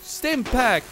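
shouting. Real, not acted. Frantic firefight, yelling at ally.

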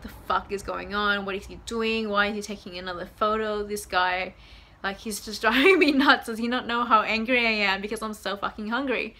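mildly acted annoyance, peaking on "driving me nuts"; really annoyed. Hungry girlfriend fuming inwardly at boyfriend, annoyed. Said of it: "you know, really annoyed".

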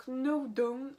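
Knowdown in a French accent, said slowly; slow English name with a French accent. Real, not acted. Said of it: "désolée pour mon accent anglais".

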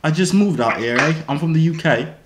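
unconvincing British; shaky-fake British with an "eh"; British accent. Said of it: "it definitely say you from New Jersey".

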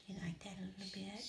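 whispering. Real, not acted. Whispering to bird on hand.

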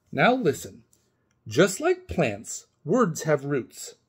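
slow, deliberate teacher voice; teacherly. Acted. Retired teacher instructing the boy, slow and measured. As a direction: lay it down like a lesson.

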